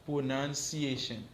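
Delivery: slow, drawn-out Pronunciation; teacher modelling Pronunciation slowly; slow model word. Shown as a demonstration. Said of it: "N ap repete apre".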